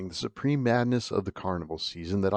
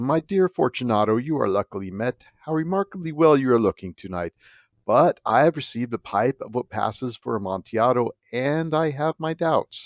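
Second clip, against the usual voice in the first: louder, higher mock-cordial host; false friendly greeting; 4 semitones higher, 5 dB louder than usual. Narrator greeting drunken Fortunato, louder and falsely cordial. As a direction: gush at him with fake warmth. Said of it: "I said to him".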